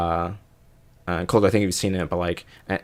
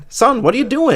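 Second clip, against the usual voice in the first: much higher, lightly scolding mock exclamation; 14 semitones higher than usual. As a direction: scold him in a squeaky mock outrage.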